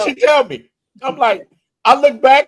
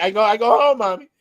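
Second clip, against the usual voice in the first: lightly put-on Dominican accent, stumbling; halting mock Dominican-accented English; drunk Dominican; 2 semitones higher, faster than usual. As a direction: mimic a tipsy Dominican pleading mildly. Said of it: "He sound like a drunk Dominican".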